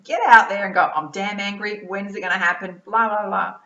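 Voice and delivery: demonstrating an angry vent; venting anger. Acted. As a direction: let it out in a punchy acted outburst. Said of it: "Tell the angels how angry you are".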